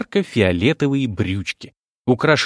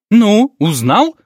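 high, loud, slow shrieking harpy; 8 semitones higher, 6 dB louder, much slower than usual. Acted. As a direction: screech it like a harpy. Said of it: "голосом гарпии повторила маменька".

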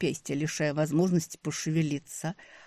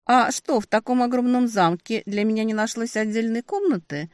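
sarcastic; 7 semitones higher, 5 dB louder than usual. A narrator's reading. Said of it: "Не удержалась я от сарказма".

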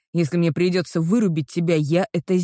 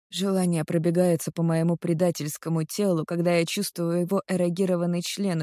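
ordinary delivery

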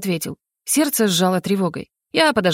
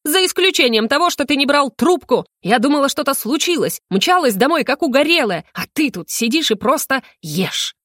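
yelling; 6 semitones higher than usual. Acted. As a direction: let the worry burst out in a shout. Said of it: "а потом заорала".

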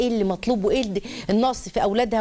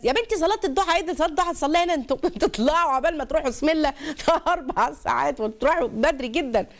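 higher, faster, laughing disbelief; amused laughing; 5 semitones higher than usual. Retold or imitated. Preacher retelling her reply to the girl, laughing and higher. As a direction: laugh off the little girl's worry.

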